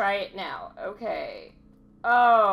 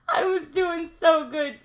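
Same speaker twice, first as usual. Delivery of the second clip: whiny mock cry; 5 semitones higher, 5 dB louder than usual. Real, not acted. Complains after falling.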